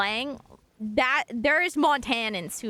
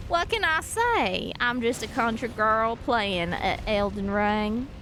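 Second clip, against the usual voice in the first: lightly put-on Southern country girl accent; 3 semitones lower than usual. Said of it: "I could whip out my Southern accent".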